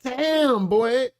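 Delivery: high, impressed exclamation; impressed "damn". Real, not acted. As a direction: wow them with admiration. Admiring reaction.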